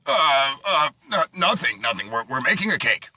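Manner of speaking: lightly acted stammering cover-up; mildly flustered excuse. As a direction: stammer a bit, caught in the act. Caught parents making an excuse.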